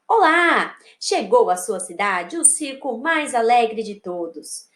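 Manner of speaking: put-on mild showy announcer reading to children; circus announcement read aloud. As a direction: draw out the title and greeting, then invite them along. Reads circus invitation aloud.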